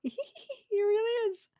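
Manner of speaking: said through laughter; laughing. Real, not acted. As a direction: laugh while speaking. Laughing reply.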